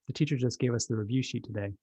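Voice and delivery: put-on a calm, unbothered child explaining; a lightly voiced, relaxed kid. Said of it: "Child calmly".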